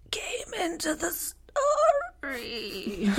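creepy, strained villain voice, high and drawn out; Red. Acted. Host shows friends a practiced film villain impression, creepy strained voice. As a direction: stretch it out slowly in a weird, struggling high voice. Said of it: "That voice, which I seriously practiced".

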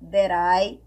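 "That I" run together with a flapped R-like T; linked T like R. Shown as a demonstration. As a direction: link "That I" with a quick flap. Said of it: "mesma coisa".

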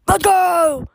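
high, loud hyper puppy; excited dog voice. Retold or imitated. Voicing her hyper doodle, high and loud. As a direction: voice the naughty dog, all go. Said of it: "She's like".

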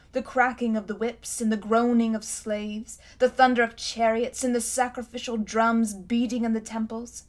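a haughty queen remembering her city's might; lightly voiced imperious queen; proud queen. Queen Jadis recalls Charn.

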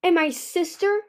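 high, loud, accusing question; hissed accusation. A narrator's reading. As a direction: throw it at her bitterly. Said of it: "Ruby hissed".

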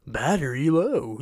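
lightly imitated British robot, slow; a hint of a headphone warning voice. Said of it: "that little British robot voice".

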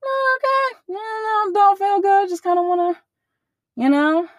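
high, strained, near-tearful mumble; imitating a crying voice. Telling the mom she feels unwell, imitating a tearful voice. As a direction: play it like you're holding back tears. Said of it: "like, crying".

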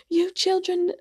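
high-pitched mock British neighbor; bad British accent. British neighbor telling off noisy kids at the pool, bad British accent. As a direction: put on a poor British accent. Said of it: "it was a really bad accent".

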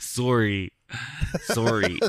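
a mock Canadian "Sorry", drawn out round; polite Canadian apology, played for a laugh. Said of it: "Was that your Canadian, uh, impression?".

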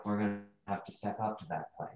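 put-on character's British accent creeping back; slipping into British accent. Player reads his line, British accent returning unintended. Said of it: "You're doing the accent again".

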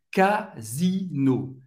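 Casino said ka-zee-no, slowly. Shown as a demonstration. Teacher shows the Z sound in Casino. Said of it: "O S tem o som do Z".

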